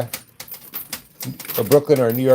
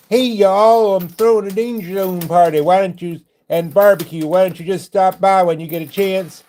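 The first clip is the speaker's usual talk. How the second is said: put-on country Southern accent, pitched a little high; folksy Southern accent; 5 semitones higher than usual. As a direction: play an unsophisticated down-home Southern host. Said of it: "don't have to sound sophisticated".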